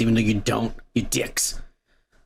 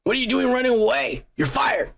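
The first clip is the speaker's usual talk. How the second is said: angry yell; 6 semitones higher than usual. Retold or imitated. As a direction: bark it at her in fury. Sister voiced yelling at assistant.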